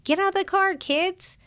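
put-on hustle the kids for a quick photo; rushing father. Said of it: "I didn't have more than".

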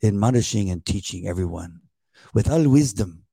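put-on slow, drawn-out reading with a light accent; lightly accented, lulling impression of the reader; imitating a slow reader. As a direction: read it slowly like a sleepy Bible narrator. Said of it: "he reads it kinda like this".

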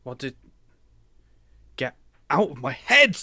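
in-character angry cry; tormented outburst. Acted. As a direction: yell at the voice inside your head. Tormented character yells at inner voice.

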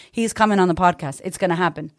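normal talking voice

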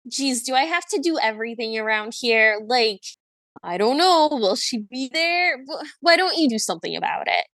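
mock grumbling of an overworked witch; put-upon exasperation. Imitating the witch's answer to the prince, put-upon and exasperated. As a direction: imitate someone fed up with being asked. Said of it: "or it was like a".

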